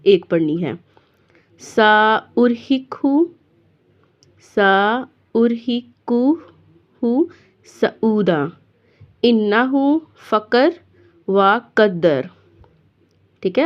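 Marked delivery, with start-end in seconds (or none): 1.6-12.3 recitation. Shown as a demonstration. Teacher recites verse.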